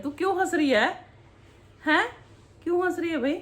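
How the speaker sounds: high, loud playful why-are-you-laughing; amused teasing question. Real, not acted. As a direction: tease her for giggling, voice up high. Mother teasing laughing daughter. (चिढ़ाते हुए ऊँची आवाज़ में सवाल)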